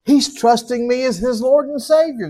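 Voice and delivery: God beaming down at a new believer; a hint of a doting heavenly father; God the Father delighted. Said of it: "he said".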